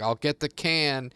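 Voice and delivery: slow, firm threat to shut the dog up; lightly stern owner warning; mock threat.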